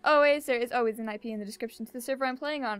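quick, run-on server plug; fast commercial patter. Real, not acted. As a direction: rattle it off like an advert. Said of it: "I talk fast because it's interesting and I sound like I'm a commercial person".

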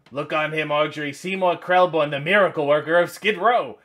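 lightly voiced proud shop owner showing off his find; a hint of a boastful boss presenting his worker; mild mock showman introducing the star; Vincent Gardenia impression. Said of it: "That's my Vincent Gardenia impression".

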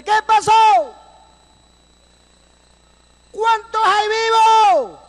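high, slow calling across distance; shouted question. Retold or imitated. Rescuers shouting over to the survivor, high and drawn out. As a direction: call over the ravine, asking who lives.

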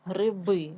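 гриби with the last и stressed; teacher's demonstration of end-stressed Гриби; stress on final И. Shown as a demonstration. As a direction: lean on the final syllable of Гриби. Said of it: "гриби падає на и".

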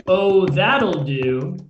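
slow, loud and menacing. Acted. George Senior menacing Farzi, slow and loud. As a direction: lean into the threat, slowly. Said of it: "And he says it menacingly".

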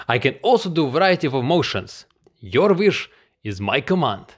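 showy voiceover in a Russian accent. Shown as a demonstration. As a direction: perform it with a Russian accent, emphatically. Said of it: "offer a voiceover in Russian accent".

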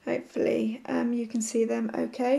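hoarse, sore-throat voice; croaky voice. Real, not acted. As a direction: talk through a croaky throat. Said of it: "Sorry about my croaky voice".

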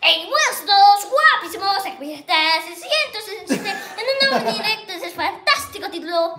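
lightly voiced Spanish youtuber opener, a touch squeaky; a hint of a hyped stream intro from Spain; Vegeta impression. Boy shows the kids his Vegeta, lightly hyped and squeaky. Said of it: "también me sale la de Vegeta".

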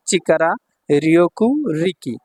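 slow, separated readings; slow demonstration. Shown as a demonstration. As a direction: give each reading its own space. Teacher shows the kanji's readings. (ধীরে ধীরে আলাদা করে উচ্চারণ)

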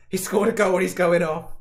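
loud, high cry of disbelief; dismayed outcry. Real, not acted. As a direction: protest at terrible luck. Scorer is going off, dismayed outcry.

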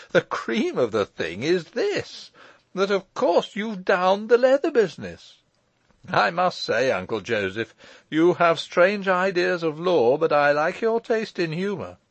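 high, loud glee without real laughing; amused shout. A narrator's reading. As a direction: crow it with great amusement. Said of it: "with a sudden shout of laughter".

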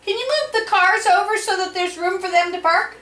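loud high call to the far room. Real, not acted. Calling Willem from the next room to move the cars, loud and high. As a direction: shout up to Willem so he hears.

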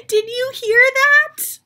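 lively, high character voices for a picture book; two story characters. Acted. Teacher voicing Gerald and Piggie for students. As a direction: act out Gerald and Piggie for the class. Reads Elephant and Piggie aloud.

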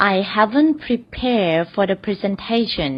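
very slow, careful teaching read; slow example sentence. Shown as a demonstration. Teacher reads the first example slowly to the class. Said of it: "ตัวอย่างแรกค่ะ".

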